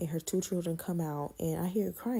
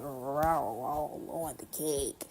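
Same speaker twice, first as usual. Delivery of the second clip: mock slow rolling; 3 semitones lower, much slower than usual. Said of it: "took your hand and said".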